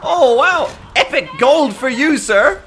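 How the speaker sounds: high, hammed-up gushing fanboy; gushing Redditor. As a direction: gush like an eager forum fan. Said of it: "Sammy's on the Dark Tide Reddit, like".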